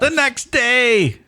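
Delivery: high, slow disbelief; surprised. Real, not acted. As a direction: react in shock. Shocked reaction.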